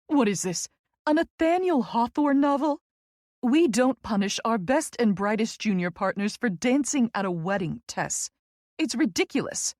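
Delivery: emphatic, incredulous scoffing; indignant friend. Acted. Friend dismissing Tess's punishment as absurd, indignant. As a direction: scoff with a lilting, rising disbelief.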